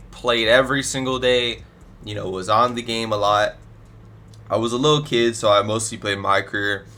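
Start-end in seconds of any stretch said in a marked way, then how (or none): 4.5-6.8 stuffy nose from allergies; blocked nose. Real, not acted. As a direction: talk through a stuffed-up nose. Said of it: "If I sound, like, real stuffy".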